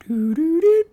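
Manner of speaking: sung high beeps, then a flat recorded-message voice; phone recording imitation. Retelling a dead phone number to his cohost, mock operator recording. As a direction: mimic the dead-line tones and robotic operator.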